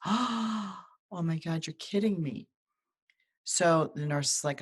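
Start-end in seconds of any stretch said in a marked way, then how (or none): 0.0-2.5 higher, very slow imitation of a stunned mom; shocked mom. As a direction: stretch it out in disbelief. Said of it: "And Mom goes".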